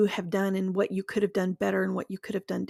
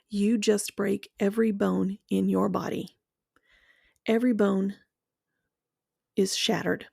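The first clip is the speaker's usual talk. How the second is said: guided visualization. Acted. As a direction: paint the fall for them, one image at a time. Guided imagery of being betrayed.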